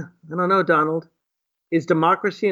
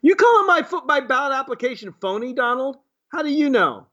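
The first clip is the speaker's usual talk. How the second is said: indignant retort; 5 semitones higher than usual. Real, not acted. Retorting to Trump's phony ballots claim.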